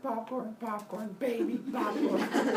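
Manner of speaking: high, light singsong list; casual snacking. Acted. Kronos eating popcorn and slipping in baby, high offhand singsong. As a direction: toss each word off, stretch the last.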